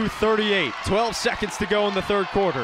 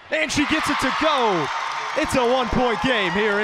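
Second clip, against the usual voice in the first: high, louder call as it drops; excited score call; 6 semitones higher, 3 dB louder than usual. Real, not acted. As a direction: lift the voice as the ball goes in. Basket cuts lead to one.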